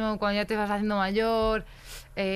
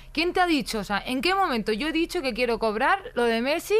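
indignant retort; 5 semitones higher than usual. Acted. Arguing back at online hater.

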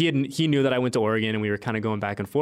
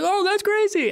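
very high, louder mock astonishment; retold amazement; 3 dB louder than usual. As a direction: play up how stunned you were. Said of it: "And I was like".

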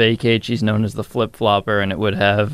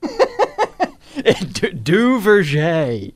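mock French accent; 10 semitones higher, much slower than usual. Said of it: "your French Canadian accent".

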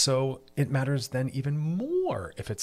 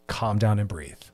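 usual speaking voice

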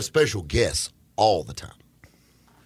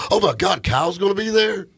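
fangirl squeal; 10 semitones higher, 4 dB louder than usual. Retold or imitated. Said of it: "like, fangirl over there".

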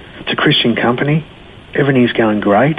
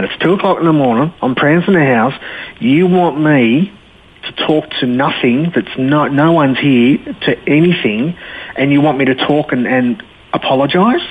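retold incredulity; 4 semitones higher than usual. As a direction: question the absurd request, stretching "you want me". Incredulous reply to friend's advice.

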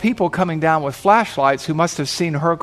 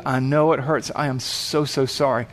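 soft, lower, sympathetic apology; gentle apology; 4 semitones lower, 4 dB quieter than usual. Acted. Paramedic apologizing to the hurting biker, gently sympathetic. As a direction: let it sink softer and tender.

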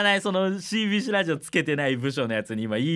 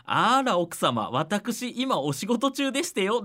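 prim lady voice; 7 semitones higher, slower than usual. Retold or imitated. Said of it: "主人の返信が".

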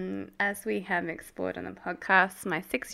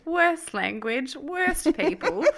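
mock rant; 5 semitones higher, much slower than usual. Mock rant about Canberra.

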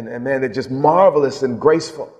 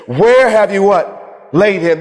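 indignant, slow, raised demand; angry authority; 4 semitones higher, slower than usual. Acted. Jesus demands at the funeral where they laid him, angry authority. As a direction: take command, drawn-out and higher. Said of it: "he, he's angry".

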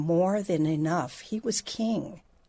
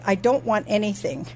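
put-on kids reciting. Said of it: "is what they would say".

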